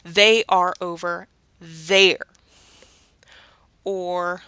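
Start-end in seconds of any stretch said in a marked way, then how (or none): 0.0-2.3 They are over there said slowly, each word spelled out; teacher voicing the full form they are; slow, deliberate example. Shown as a demonstration. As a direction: model it slowly and clearly. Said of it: "Then I'm gonna be using they are".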